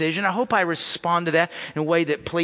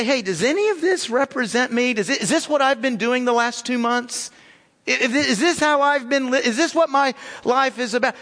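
higher, searching voice that keeps climbing; earnest self-questioning; 7 semitones higher than usual. Retold or imitated. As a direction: ask yourself aloud, pressing and troubled. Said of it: "and say".

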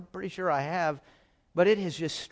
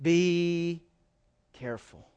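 gentle warning. Acted. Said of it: "Here's what God is saying to me".

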